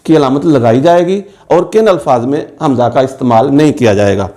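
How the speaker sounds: ordinary delivery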